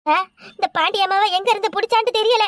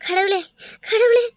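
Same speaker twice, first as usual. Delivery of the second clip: crying out to God in despair; keen and moan, calling on God; wailing lament. Acted. Wife lamenting to God over her lost husband, grieving.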